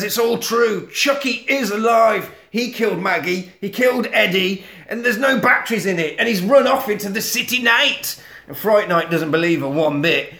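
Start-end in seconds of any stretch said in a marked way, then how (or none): 0.0-8.2 high, frantic pleading; panicked, pleading with the officer. Retold or imitated. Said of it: "she says".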